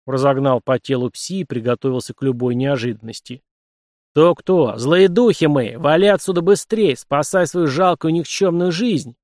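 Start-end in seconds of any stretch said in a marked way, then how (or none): 4.1-9.2 loud, menacing, drawn-out threats; irritated spirit voice. Acted. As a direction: scare him off like an annoyed ghost. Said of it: "начал раздражаться".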